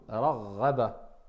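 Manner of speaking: Raghaba with the doubled consonant held, not pressed too hard; Arabic pronunciation. Shown as a demonstration. Teacher models Raghaba for the class, a light shadda. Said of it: "Mais là, il y a une shidda".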